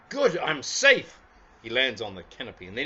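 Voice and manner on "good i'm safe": much higher, louder little bear voice; storyteller voices Lucky for children, high and eager. Acted. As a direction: play the bouncy toy bear itching to go out. Lucky lands.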